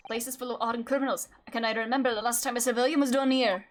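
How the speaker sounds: lightly put-on Scottish guy; hint of an amateur Scottish accent. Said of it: "Back in time for Scottish guy?".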